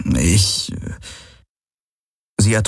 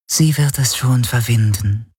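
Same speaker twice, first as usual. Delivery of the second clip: higher, otherworldly half-whisper; whispering shadow creature; 5 semitones higher than usual. A narrator's reading. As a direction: whisper it like a shadowy voice in someone's head. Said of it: "hörte er die Schattenhelix flüstern". (flüsternde Schattenstimme)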